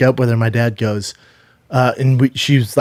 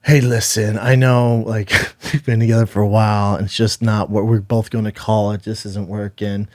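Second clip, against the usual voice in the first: low, softened let-down, trailing quieter; gentle break-up; 4 semitones lower, 5 dB quieter than usual. Retold or imitated. Boyfriend breaking up with her in a restaurant, gentle let-down. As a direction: ease into bad news, voice dropping away.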